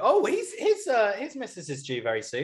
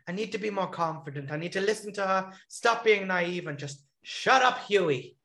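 Huey voice; 4 semitones higher than usual. Retold or imitated. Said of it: "I love your Huey impression".

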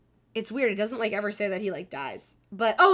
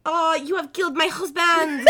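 dramatic grieving widow; 7 semitones higher, 6 dB louder than usual. Acted. Acting vampire woman's grief.

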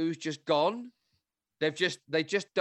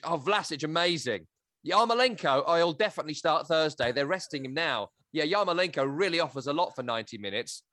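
fake phone call. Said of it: "oh, I was just".

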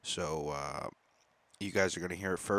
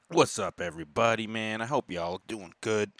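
big loud hello to fans; loud greeting; 3 semitones higher, 6 dB louder than usual. Real, not acted. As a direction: shout out the hello. Second loud opening greeting.

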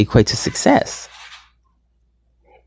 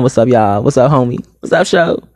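lightly put-on hood greeting; a touch of street swagger; hood homeboy greeting. Shown as a demonstration. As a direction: switch into casual homeboy talk. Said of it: "threw my little boy hood on".

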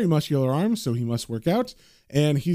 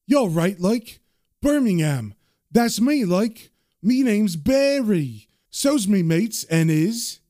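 put-on higher-pitched Birmingham accent; Brummy accent; 4 semitones higher, slower than usual. Man showing off his Brummy accent to an old mate. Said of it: "I can do a Brummy accent".

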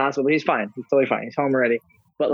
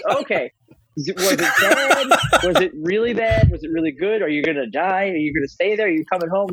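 anxious son; 3 semitones higher than usual. Retold or imitated. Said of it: "I'm like".

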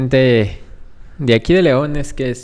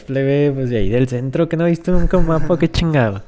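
put-on northern Mexican accent; 3 semitones higher than usual. Teasing a Mexico City gamer online, northern Mexican accent. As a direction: brag like a norteño who never saw a map. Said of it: "empecé a hablar como norteño".

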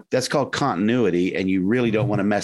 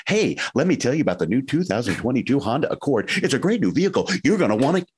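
rushed, higher car-ad pitch; commercial pitch; 4 semitones higher than usual. Retold or imitated. Actor mocking a rushed car ad, upbeat salesman pitch. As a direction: squeeze it into thirty seconds like a car ad. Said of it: "And you do that in commercials".

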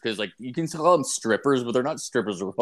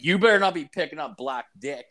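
laughing; 4 semitones higher, faster than usual. Retold or imitated. Laughing warning to girlfriend.

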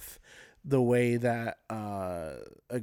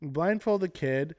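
a light take on an excited comic parent, ending much higher and louder; Brian Regan bit; 5 semitones higher, 6 dB louder than usual. Retold or imitated. Retelling a comedian's bit to a co-host, building to a high, loud burst. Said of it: "Brian Regan, but when he's like".

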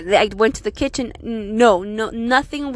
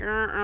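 imitated step creak; 7 dB quieter than usual. Going down old basement steps, soft imitated creaking. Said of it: "creaking, like, making squeaking noise".

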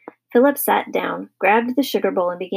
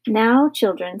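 gentle, mild admonishment; slower than usual. Acted. Mother calming her squabbling children, gentle.

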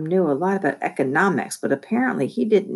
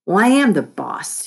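mildly irritated, higher on the stress; snapped retort; 5 semitones higher, 4 dB louder than usual. A narrator's reading. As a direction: snap it back with mild irritation. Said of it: "he snapped".

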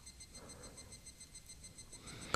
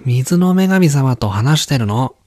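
put-on young boy voice; 4 semitones higher than usual. Boy answers his mother.

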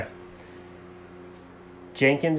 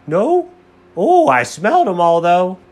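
high, loud, excited puppy; eager dog voice; 6 semitones higher, 9 dB louder than usual. Acted. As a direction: play an overeager little dog. Dog Alfred answers his owner.

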